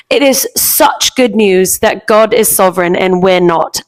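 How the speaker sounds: a light imitation of a British guest pastor, slow and measured; mildly put-on British accent, drawn out slowly. Quoting the British guest pastor, in a lightly imitated British accent. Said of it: "he said it like this".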